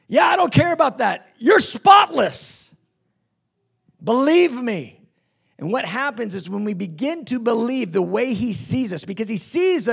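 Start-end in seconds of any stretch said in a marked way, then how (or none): 0.1-5.0 reassuring Jesus. Acted. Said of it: "He goes".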